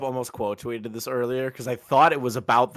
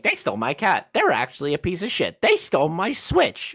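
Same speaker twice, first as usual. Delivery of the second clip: whiny mock complaint; 9 semitones higher, 3 dB louder than usual. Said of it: "It's like".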